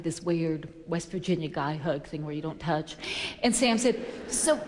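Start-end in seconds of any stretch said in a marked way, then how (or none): 4.3-4.6 higher-pitched, louder casual hail; lightly acted buddy greeting; retold friendly greeting. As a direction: greet an old pal, pitched up. Retold reunion chat.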